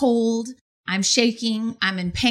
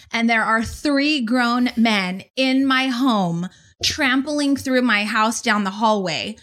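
usual speaking voice

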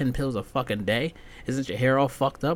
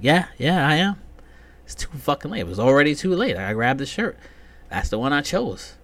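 defiant gym guy; 4 semitones higher, 5 dB louder than usual. Retold or imitated. Voicing the guy answering back.

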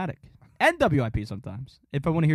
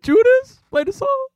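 high, loud radio host voice; Gargano impression; 12 semitones higher, 9 dB louder, slower than usual. Imitating Gargano opening his radio show, loud and high. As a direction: belt it out like an excited sports radio host. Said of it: "That's Gargano".

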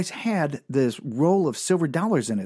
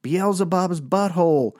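club emcee; 6 semitones higher than usual. Retold or imitated. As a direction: hype the next act like an MC. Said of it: "this M C would walk up and goes".

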